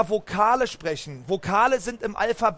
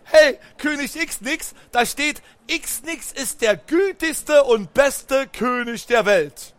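flattering trick; 3 semitones higher, 3 dB louder, slower than usual. Acted. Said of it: "Ich hab gesagt".

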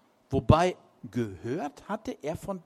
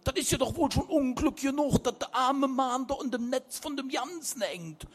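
put-on higher, louder young man correcting; Martin setting it straight; 8 semitones higher, 3 dB louder than usual. A narrator's reading. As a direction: insist the point is obvious. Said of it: "stellte Martin klar".

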